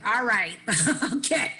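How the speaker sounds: chuckling okay, all right; laughing at herself. Real, not acted. Speaker laughing at her own drama, chuckling. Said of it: "dramatic much".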